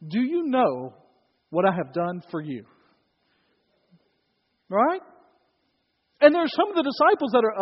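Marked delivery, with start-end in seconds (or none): 0.1-2.6 pointed, louder scolding question; exasperated dad. Retold or imitated. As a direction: lean on it like a fed-up father. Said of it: "The tone was probably slightly different".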